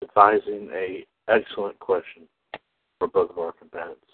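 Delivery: hushed golf commentator voice; golf announcer. Pretend. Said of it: "I'm talking like a golf announcer".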